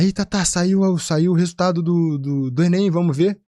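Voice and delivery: a friend bursting with news; excited friend. Retold or imitated. Friend tells Tatá the Enem results are out, lightly voiced excitement.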